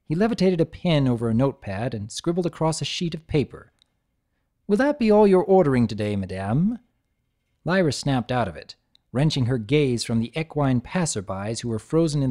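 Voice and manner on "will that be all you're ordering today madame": snooty waiter. Acted. Mustached unicorn waiter.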